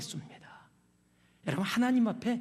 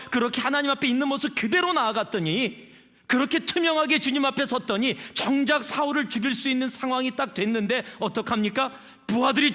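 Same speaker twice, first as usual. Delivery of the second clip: fiery preaching; 6 semitones higher, 5 dB louder than usual. Acted. Preaching at full force.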